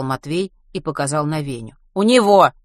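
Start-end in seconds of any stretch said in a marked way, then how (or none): 1.9-2.5 loud, high exclamation; raised-voice eager reply; emphatic pointing out. A narrator's reading. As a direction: call it out insistently. Boy points out his friend.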